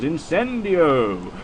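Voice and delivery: drawn-out Incendio, like casting a spell; spell incantation. Retold or imitated. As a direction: intone Incendio with a long, gliding ending. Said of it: "you had a spell that was".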